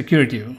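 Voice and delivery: curative run together with a softened T; quick casual curative. Shown as a demonstration. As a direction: say curative as fast talkers do. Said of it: "when they're going fast".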